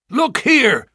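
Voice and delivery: put-on high, loud, stern old Ferrier; angry old farmer. Old farmer confronting two young Mormons, angry and loud. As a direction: bark at the unwelcome suitors.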